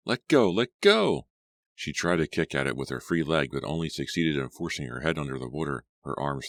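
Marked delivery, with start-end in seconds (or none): 0.1-1.3 high, loud pained screams; screaming. A narrator's reading. Claudia bitten in the water, high loud scream. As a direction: scream at the biting dog. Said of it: "Claudia screamed".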